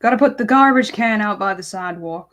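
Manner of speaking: playful put-on American accent. Teasing her friend, a mock American accent. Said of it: "I don't know the accents yet".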